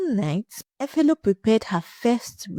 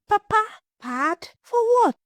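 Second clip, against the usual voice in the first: horrified, outraged question; shocked disbelief; 11 semitones higher than usual. Acted. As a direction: Efelo recoils in shock at her father's demand, pitch jumping up. Shocked daughter questions father.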